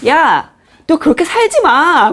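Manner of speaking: harsh scolding. Retold or imitated. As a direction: snap at her like a blunt friend. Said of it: "막 이러면". (웃음 섞인 거친 꾸중)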